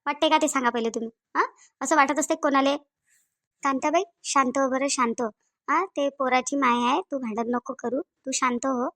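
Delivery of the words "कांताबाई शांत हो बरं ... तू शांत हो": slower, gently hushed plea; calming. Acted. Urging Kantabai not to fight, calming.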